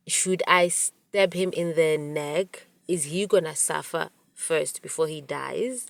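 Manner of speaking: slow, hushed, coldly calm killer musing; eerily calm. Retold or imitated. Friend calmly plotting murder aloud to the narrator, cold quiet calm. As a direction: voice the friend as calmly chilling as a movie psycho. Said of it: "she's saying it so calm".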